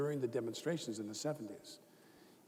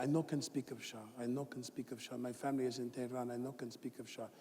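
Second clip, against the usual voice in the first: hushed, broken-English plea; soft mock-tearful foreign student; imitating tearful roommate; 6 dB quieter than usual. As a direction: murmur it fearfully, as if close to tears. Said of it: "he who would be crying".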